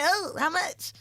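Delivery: quoting the men. Retold or imitated. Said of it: "they was looking at me and my bitch like".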